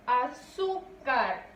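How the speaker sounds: "Azúcar" slowly in separate syllables, ZÚ held; a... ZÚ... car, falling at the end of "Azúcar"; stressed middle syllable. Shown as a demonstration. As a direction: stretch the ZÚ in "Azúcar". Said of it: "Su sílaba tónica recae en".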